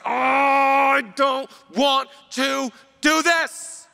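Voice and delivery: slow, drawn-out pleading groan of reluctance; reluctant Jesus. Retold or imitated. Preacher voicing Jesus in the garden, slow reluctant plea. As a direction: plead it like you want out.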